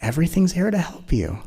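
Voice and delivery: lightly voiced divine reply; voice of frustration. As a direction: speak as the gentle divine agent. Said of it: "as an agent of the divine, it goes".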